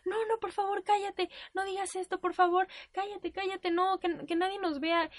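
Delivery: high, hushing plea; retold panicked pleading. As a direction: beg someone to stop making a scene. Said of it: "pero empezó a decir".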